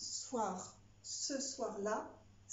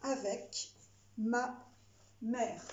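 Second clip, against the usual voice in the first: dictating; 3 dB louder, much slower than usual. Shown as a demonstration. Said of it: "C'est parti".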